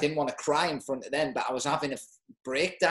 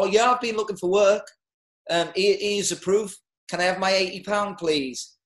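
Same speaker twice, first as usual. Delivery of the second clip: higher, louder, sing-song fake eagerness; a hammed-up grovelling dole claimant; mock eager claimant; 6 semitones higher, 5 dB louder than usual. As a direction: play up the keen jobseeker begging for his money. Mock claimant at job centre.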